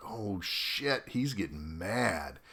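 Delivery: soft, worried under-the-breath reaction; hushed, sinking dread; nervous aside. Retold or imitated. Watching the commander get mad, soft nervous aside.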